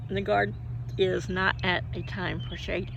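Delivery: talking with hiccups; words broken by hiccups; hiccuping. Real, not acted. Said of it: "I cannot stop hiccuping".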